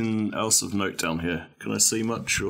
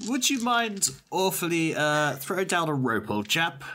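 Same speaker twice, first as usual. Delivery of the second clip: put-on British accent; 6 semitones higher than usual. Posh British request for rope.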